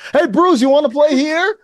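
mock New York reporter shouting the question; blunt reporter. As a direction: fire the question at him with no subtlety. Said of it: "you leave nothing to subtlety or kinda, like, intonation".

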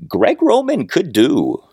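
slow down and stress "could" as a hedge. Real, not acted. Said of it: "I emphasize that word could".

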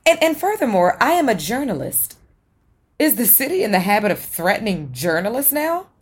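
indignant. Acted. She is threatened and pushes back.

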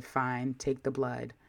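quiet, resigned give-in; calm resignation. Retold or imitated. Resigned nurse-side patient, quietly giving in. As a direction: say it softly, giving up. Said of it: "I calmed down".

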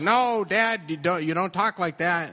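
retold embarrassed outburst; mortified protest. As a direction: plead with dad to stop, acting it out.

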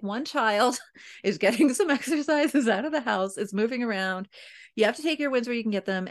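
half-laughing self-talk, quick at the end; laughing relief. Retold or imitated. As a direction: chuckle through it, then rush the last line. Retold relieved inner thought.

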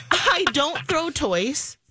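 lightly voiced child, slow and careful; slow little-kid recital; three-year-old. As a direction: imitate a preschooler reciting rules through amusement. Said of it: "And then he goes".

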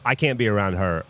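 lightly imitated low, gravelly guy; mock gravelly big-guy voice; gravelly mountain man. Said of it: "gravelly voice".

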